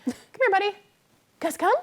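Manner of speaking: high, loud call to a dog. Real, not acted. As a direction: call him back across the room. Owner calling dog back.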